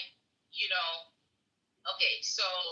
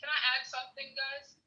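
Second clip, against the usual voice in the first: choppy connection; radio breaking up; 8 semitones higher than usual. Real, not acted. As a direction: voice cutting in and out on the call. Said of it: "It sound like you're breaking up".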